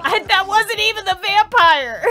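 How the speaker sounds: high, loud, laughing wail; laughing protest. Real, not acted. Streamer protesting through laughter at the mistake.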